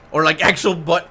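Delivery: loud, laughing burst. Real, not acted. Laughing at own joke.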